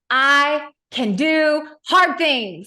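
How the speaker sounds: loud, slow, high chant of the mantra; screaming mantra. Retold or imitated. Mom screaming encouragement at her tired son. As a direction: bellow it out like a cheerleader mom. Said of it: "screaming at the top of my lungs".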